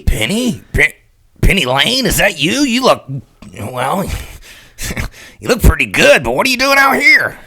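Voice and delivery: high, loud surprised questions; stunned high call to Penny; shocked friend. Acted. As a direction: sound taken aback.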